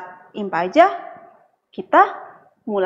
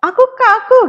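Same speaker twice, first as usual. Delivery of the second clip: put-on eager child voice; 13 semitones higher, 7 dB louder, faster than usual. Voices child answering teacher.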